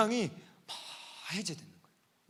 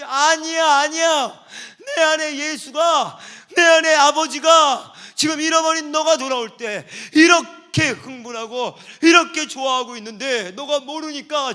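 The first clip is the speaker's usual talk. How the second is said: preaching at full force; 5 semitones higher, 14 dB louder than usual. Acted.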